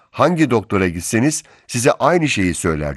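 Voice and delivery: ordinary talk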